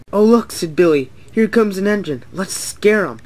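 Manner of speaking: eager mischief, voice lifted; excited. A narrator's reading. Billy to Duncan as an engine approaches, excited.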